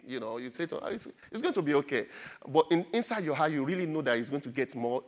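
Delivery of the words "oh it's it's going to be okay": insincere. Retold or imitated. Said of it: "you just say things and we really don't believe it".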